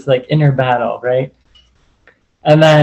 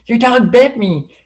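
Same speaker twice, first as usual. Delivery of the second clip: retold accusation; 9 semitones higher than usual. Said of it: "I'm like".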